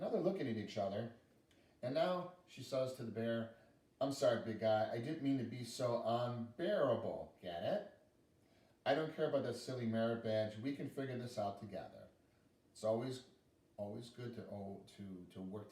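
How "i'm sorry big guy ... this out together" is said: a gently sorry little girl, lightly voiced; sincere apology. Girl apologising to the bear, tender. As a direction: make up with the bear kindly.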